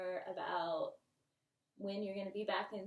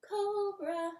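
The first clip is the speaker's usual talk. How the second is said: squeaky; 10 semitones higher, 7 dB louder than usual. Shown as a demonstration. Playful yoga cue.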